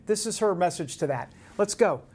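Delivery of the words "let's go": put-on brash, punchy New York accent with the words hit hard; a tough New Yorker egging on a fight, in a New York accent. Host rallying behind the congresswoman, brash New York accent. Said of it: "I'm channeling my inner New York".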